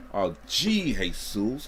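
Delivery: hammed-up exclamation. Hams up the corrected name.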